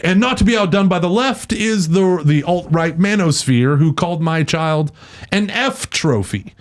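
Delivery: mocking high quote of an online troll; quoting a troll. Host mocking the troll who insulted his child. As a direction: sneer it back like the troll said it. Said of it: "he's like".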